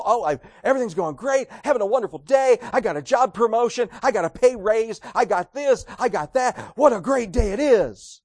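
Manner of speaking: bright, bubbly happy-go-lucky talk; cheerful boast. Retold or imitated. Preacher mimics a lucky man, cheery and upbeat. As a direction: gush about your good luck.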